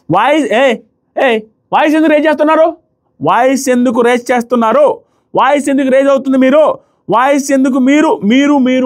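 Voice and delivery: retold over-the-top scolding. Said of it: "ఓవర్గా మాట్లాడారు".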